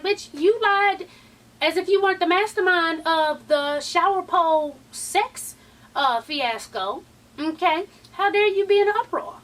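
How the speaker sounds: mock outrage at a hypocrite; sassy clapback. Vlogger's imagined reply to a lying cast member, drawn-out sassy indignation. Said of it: "my first thing came to my mind was like".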